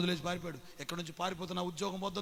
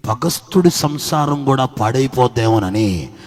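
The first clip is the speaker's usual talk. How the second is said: loud, driving sermon cadence, louder; preaching at full force; 20 dB louder than usual. Acted. Preacher rousing the congregation to fear God, loud and driving. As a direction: hammer each line home to the church.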